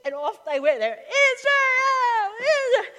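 high, loud chant broken by laughing sobs; laughing through tears. Real, not acted. Preacher overcome while voicing the crowd, laughing and crying.

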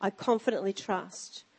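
scripture reading. Acted. Reads scripture aloud.

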